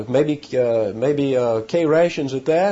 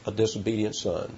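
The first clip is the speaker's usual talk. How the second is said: "A disobedient son" repeated much softer, falling away; quiet echo; 2 semitones lower, 6 dB quieter than usual. Shown as a demonstration. Preacher repeating his point softly so it sinks in, quietly. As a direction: let the repeat sink into a soft aside. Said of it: "Number one, a disobedient son".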